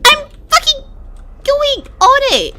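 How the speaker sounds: high-pitched protest, loudly stretched; exasperated wail. Real, not acted. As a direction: wail at the game in frustration. Game refuses to let them climb.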